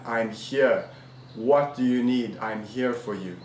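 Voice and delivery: low, soft fatherly reassurance; reassuring. Acted. Father answers his son's call, reassuring.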